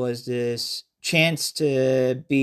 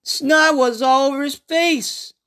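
higher, brighter-pitched storyteller voice greeting the listener; character narrator; 9 semitones higher than usual. Acted. Survivor greeting listeners before his flashback story. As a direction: play a survivor telling his tale.

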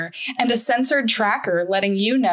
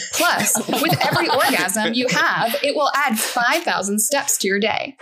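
upbeat ad announcer voice; chipper 1950s ad; 2 semitones higher than usual. Acted. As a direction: sell it brightly to the ladies. Announcer ad read.

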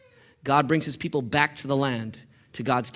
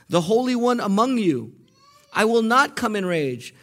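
high, rising fervor building to loud declarations; God's impassioned plea; 6 semitones higher, 5 dB louder than usual. Acted. Preacher voicing God's heart of love to Israel, impassioned. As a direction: cry it out with mounting, stirred passion. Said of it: "Listen to God's emotion here".

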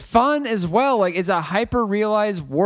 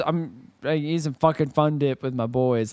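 quiet quote; 7 semitones lower, 5 dB quieter than usual. Retold or imitated. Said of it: "he says".

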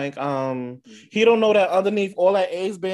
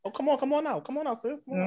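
playful coaxing; 9 semitones higher, 3 dB quieter, faster than usual. Pretend. Playfully coaxing someone out of hiding.

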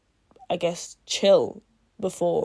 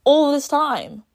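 distraught; 5 semitones higher, 4 dB louder than usual. Retold or imitated. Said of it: "she's obviously distraught".

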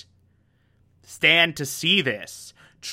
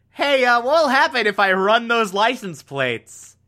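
much higher, pressing mock challenge; pointed Stan threat; 7 semitones higher than usual. Stan threatening to run the plates, higher and pressing. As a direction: lean in with a higher sly threat.

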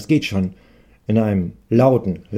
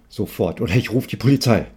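threat. Acted. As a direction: warn him coldly, no more politeness. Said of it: "droht der Hoffmann".

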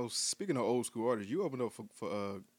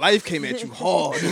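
laughing; 6 semitones higher, 13 dB louder than usual. Real, not acted. Laughing joke about aged singer.

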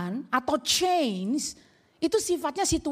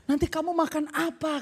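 mama meratap. Acted.

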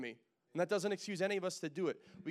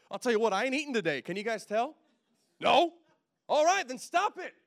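loud, fast and laughing; joking shout that breaks into laughter; yelling; 8 semitones higher, 10 dB louder than usual. Real, not acted. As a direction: bellow it at the crowd, grinning. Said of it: "stop yelling at me".

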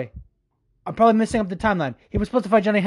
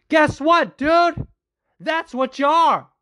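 angry outburst; 6 semitones higher, slower than usual. Real, not acted. Ranting at Cejudo's quote.

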